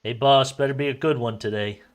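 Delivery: casual, friendly call to the boss; lighthearted greeting. Acted. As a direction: toss it off lightly. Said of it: "lightheartedly to the governor".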